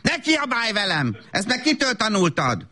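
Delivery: high scolding without extra volume; shouting mother. Acted. Mother shouting at her child, scolding. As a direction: snap back at a child, indignant. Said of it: "Anya azért kiabált".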